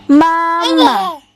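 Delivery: Mama said high through a laugh; laughing model word. Shown as a demonstration. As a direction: model it for baby, giggling. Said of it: "Can you say".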